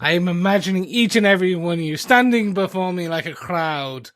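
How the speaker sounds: put-on light Shakespearean British accent; hint of a theatrical British accent. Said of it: "I was doing a great British accent".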